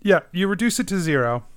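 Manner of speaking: real jubilant whoop; triumphant cheer. Real, not acted. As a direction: celebrate a lucky roll. Celebrates reducing damage to zero.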